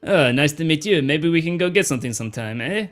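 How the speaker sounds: put-on flirting in a Weequay accent. Doorman inviting newcomer out, Weequay accent. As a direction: chat her up as a Weequay. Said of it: "this is how all Weequay sound".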